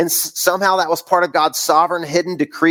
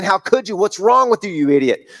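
accusing judge; 3 semitones higher than usual. Retold or imitated. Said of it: "pointing his finger".

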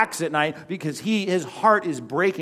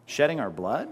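ordinary talk

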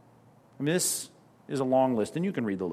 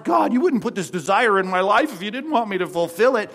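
higher and louder, a self-justifying plea to God; hammed-up insistent prayer, pitched up; mock pleading prayer; 6 semitones higher, 5 dB louder than usual. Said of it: "saying in our hearts".

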